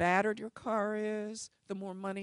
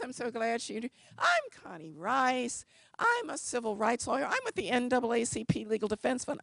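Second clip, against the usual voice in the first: eager introduction; 5 semitones higher than usual. Retold or imitated. Eager self-introduction continues.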